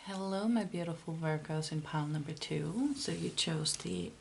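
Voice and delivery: hoarse, losing her voice. Real, not acted. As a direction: rasp through a sick, tired voice. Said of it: "I'm losing my voice".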